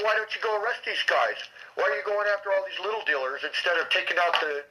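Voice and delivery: imitating an indignant question; retold protest. Retold argument, challenging her priorities.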